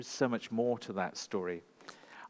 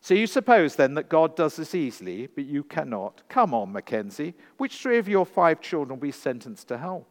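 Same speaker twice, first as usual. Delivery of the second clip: loud, higher pressing challenge; demanding judge; 4 semitones higher, 7 dB louder than usual. A narrator's reading. Sophia forcing Mackenzie to choose his children, loud demand. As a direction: corner him, demand an answer.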